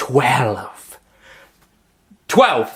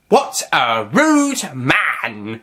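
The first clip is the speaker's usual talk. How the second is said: prim tut; 3 semitones higher, much slower than usual. Acted. Prim disapproval.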